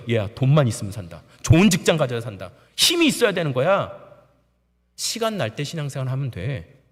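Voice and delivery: lightly voiced parent preaching money; worldly parent.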